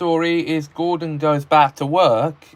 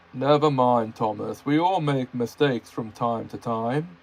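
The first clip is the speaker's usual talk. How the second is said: kindly. Acted. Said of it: "replied the Fat Controller kindly".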